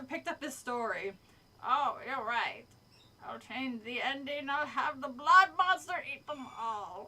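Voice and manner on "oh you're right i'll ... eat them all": lightly voiced monster conceding, then building; pink blob monster. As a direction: play a blob monster warming to an idea. Pink monster figure replies.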